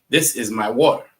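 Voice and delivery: "is" pronounced as its own word; standard English. Shown as a demonstration. Showing the class how they don't speak, every word kept distinct. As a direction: carefully separate "This is my water". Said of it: "That's not how we speak, though".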